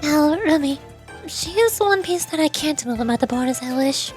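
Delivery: softly measured, lightly voiced leader; understated reserve with small hesitations; composed, guarded president. President discussing Rumi with Sensei, guarded composure. President speaks of her rival.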